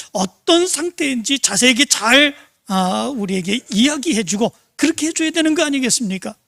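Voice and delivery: mildly hammed-up outrage at the nurse; retold angry complaint. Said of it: "소리를 질렀다고". (가볍게 흉내 낸 분노한 항의)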